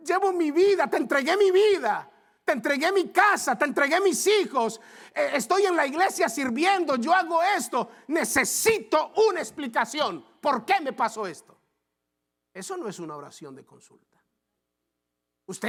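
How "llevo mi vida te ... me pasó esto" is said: high, loud, aggrieved demand to God; the hurt believer demanding an explanation, shouting; indignant complaint. Retold or imitated. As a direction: plead and protest at full volume.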